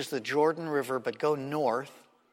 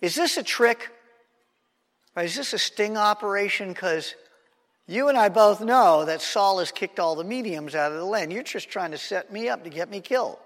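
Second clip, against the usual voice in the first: suspicious medium; 5 semitones higher than usual. Retold or imitated. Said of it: "And she's going".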